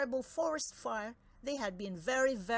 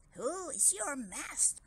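demanding; 5 semitones higher than usual. Acted. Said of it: "demanded Franz".

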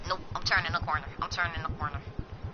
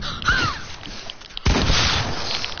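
huge high gasp; long airy gasp of alarm; startled gasp. Real, not acted. Startled during game fight.

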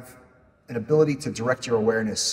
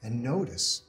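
soft, measured meditation voice with long pauses; guided meditation; 7 dB quieter than usual. Acted. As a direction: guide them gently through a body scan, unhurried. Leads a body scan meditation.

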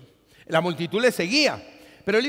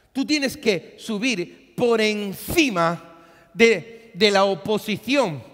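louder, higher exhortation; fiery preaching; 4 semitones higher, 8 dB louder than usual. Acted. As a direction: rouse the congregation past opposition. Preaching at full force.

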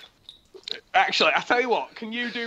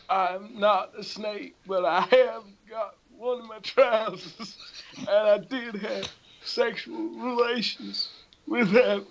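Bill Clinton; 4 semitones higher than usual. Acted. Politician admitting relations with a snake, mock-solemn. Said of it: "come up behind Bill Clinton".

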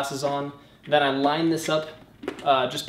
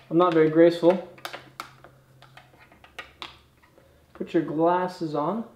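muffled behind face shield; speaking inside a helmet; 3 semitones higher than usual. Real, not acted. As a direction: voice through bubble visor. Seen 4: Full helmet on, bubble shield snapped in front of his face.

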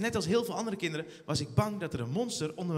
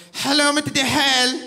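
higher, louder operator greeting; hint of a call-centre voice; phone operator; 6 semitones higher, 11 dB louder than usual.

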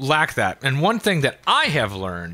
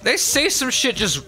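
high-pitched Australian accent; 7 semitones higher than usual. Shown as a demonstration. Explaining accent rules to listeners, Australian accent. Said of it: "The Australian accent, for instance".

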